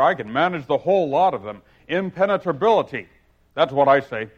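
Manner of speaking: hearty, self-pleased Humpty voice; gaily. Acted. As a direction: boom it out cheerfully as a pompous egg. Humpty voice held.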